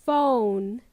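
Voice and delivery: PHONE drawn out, gliding from oh to oo; diphthong demo. Shown as a demonstration. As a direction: model PHONE slowly for learners. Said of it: "starts with an O, ends with an oo sound".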